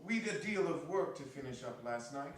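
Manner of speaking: a daughter explaining herself; young Martha. Acted. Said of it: "replied the girl".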